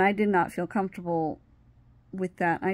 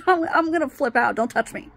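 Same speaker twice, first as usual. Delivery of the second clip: retold freak-out; 6 semitones higher, 5 dB louder than usual. Replaying her outburst at the man.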